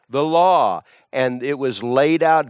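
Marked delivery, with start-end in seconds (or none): 0.1-0.8 emphatic repeated "law"; stress on law. Shown as a demonstration. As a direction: hit "law" hard again. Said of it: "the Jewish people likewise had the law".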